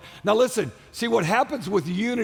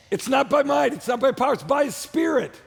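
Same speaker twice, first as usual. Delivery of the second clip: rising preacher's call; 5 semitones higher than usual. Real, not acted. Preacher builds to a climax.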